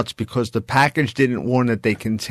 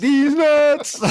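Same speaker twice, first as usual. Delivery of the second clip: mock catchphrase; 12 semitones higher, 3 dB louder than usual. Joke catchphrase these nuts.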